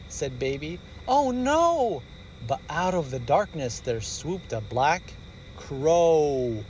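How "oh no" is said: high little gasp of oh no; high frightened cry; alarmed cub. Acted. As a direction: cub startled. Baby bear alarmed.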